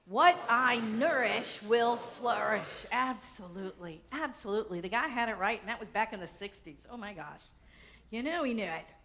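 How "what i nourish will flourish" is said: loud, slow declaration; louder, drawn-out affirmation; said out loud together. Shown as a demonstration. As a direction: proclaim it slowly to the room. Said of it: "Let's say it out loud".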